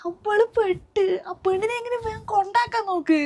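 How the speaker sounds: high, drawn-out panicked cry; alarmed outburst. Acted. Neighbour bursting in to warn the mother, alarmed. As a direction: blurt the bad news in alarm.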